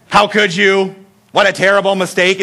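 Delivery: hammed-up dismay at a blunder; mock scolding. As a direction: scold the driver in mock horror. Mock scolding GPS lady.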